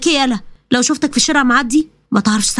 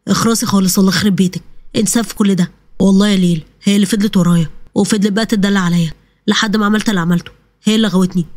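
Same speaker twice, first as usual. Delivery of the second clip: a lower male voice, pleading and excusing himself; lightly voiced pleading groom; 5 semitones lower than usual. The cheating groom pleads with Leil, lightly lowered male voice.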